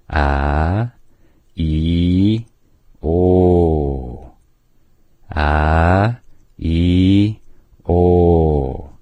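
A, E, O drawn out long; dragged vowels. Shown as a demonstration. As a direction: drag out A, E, O. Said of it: "pronounced with them dragged out".

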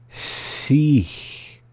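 "Sich" drawn out subtly, with a long hissed end; slowly. Shown as a demonstration. Teacher giving a hard example, "Sich" slowed down subtly. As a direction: stretch "Sich" a little. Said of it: "hard one to slow down".

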